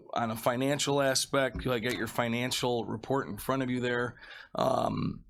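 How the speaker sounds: slightly hoarse sick voice; talking with a bit of a cold; feeling sick. Real, not acted. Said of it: "I'm under the weather a little bit here".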